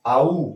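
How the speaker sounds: आऊ as a gliding AH-OO; teacher sounding out आऊ as one glide; diphthong demonstration. Shown as a demonstration. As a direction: model आऊ, gliding from open AH into OO. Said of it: "ए और ये लोटा वाला double ओ का".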